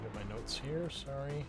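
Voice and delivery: ordinary talk, nothing marked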